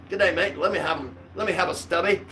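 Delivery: lightly put-on Aussie accent greeting; Australian accent. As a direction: greet the pub like an Aussie bloke. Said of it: "and go".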